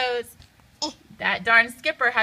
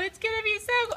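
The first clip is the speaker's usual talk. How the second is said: cut off by cold water; 10 semitones higher, 5 dB quieter, much faster than usual. Acted. Water hits mid-sentence.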